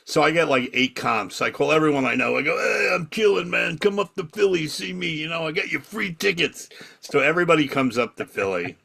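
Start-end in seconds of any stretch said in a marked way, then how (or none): 2.6-6.7 higher-pitched, cocky invitation to friends; excited boasting. Retold or imitated. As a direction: brag and invite them along. Bragging phone invitation to friends.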